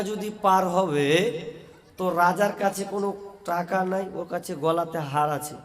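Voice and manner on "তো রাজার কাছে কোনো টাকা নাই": usual speaking voice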